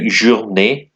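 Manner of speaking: "journée" ending in an ay sound; "journée" with its last vowel as ay; acute E sound. Shown as a demonstration. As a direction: say "journée" with final é like bay. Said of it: "sort of A sound".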